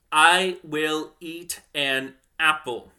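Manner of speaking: slow and carefully spaced, every word on its own; slow example sentence. Shown as a demonstration. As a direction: say each word of "I will eat an apple" apart and slowly. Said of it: "let's take a sentence like".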